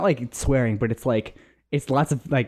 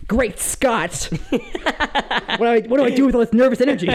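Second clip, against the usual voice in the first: high, fast frantic outburst; panicked mad scientist cry; Doc Brown; 10 semitones higher, 3 dB louder, faster than usual. Retold or imitated. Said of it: "shake it like Doc Brown".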